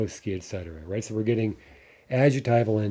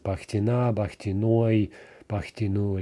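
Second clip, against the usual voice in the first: Bakhtina, Bakhtinoi, Bakhtinu with the stress on the ending. Shown as a demonstration. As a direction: lean on each ending. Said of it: "all the endings would be stressed".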